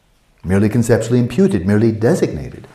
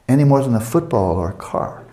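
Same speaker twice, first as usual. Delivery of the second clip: ordinary talk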